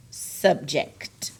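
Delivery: "Subject" with the final K and T both released; crisp K-T ending. Shown as a demonstration. Teacher dictating a spelling word, "Subject" with crisp K-T ending. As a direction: finish "Subject" on a clearly sounded k-t. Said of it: "See how it's making that K T sound".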